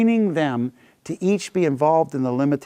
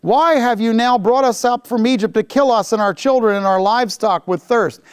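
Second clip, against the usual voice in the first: grumbling; 6 semitones higher than usual. Acted. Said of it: "they grumbled against Moses and said".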